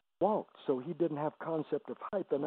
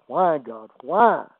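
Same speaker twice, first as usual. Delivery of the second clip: a louder, anguished cry of "Why"; 10 dB louder, much slower than usual. Retold or imitated. Grieving preacher in his car crying out to God, anguished. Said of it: "And I said".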